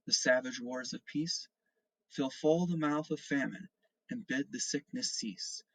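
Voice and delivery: slow, measured recitation of a poem; poem reading. Acted. Teacher reading a poem to the class, slow and solemn. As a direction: read each line slowly and solemnly, like verse.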